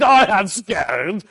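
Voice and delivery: a dad voicing his little daughter as a grand English hostess, high and loud; hammed-up English hostess. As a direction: play the grand lady of the house. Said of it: "She said".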